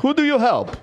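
indignant put-on Russian accent; fake Russian accent. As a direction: accuse them of false advertising in a Russian accent. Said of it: "What part of Russia was that accent".

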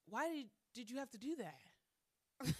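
hurt whiny quote. Retold or imitated. Acted quote confronting a friend.

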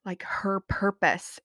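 slow, whispered and tender. Real, not acted. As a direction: let it fall to a hushed whisper. Tender praise of her mom.

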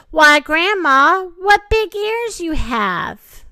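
high, loud, slow astonishment; surprised. A narrator's reading. Girl staring at grandma's ears, surprised.

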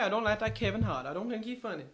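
lightly voiced opinionated star comic; Eddie Murphy. Star running down another comic, lightly put-on celebrity voice. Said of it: "Can Eddie Murphy do an impression".

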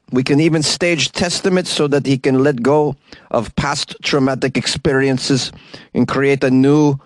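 put-on lightly done Russian accent. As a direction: read it in a hint of Russian accent. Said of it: "allows me to do a Russian accent".

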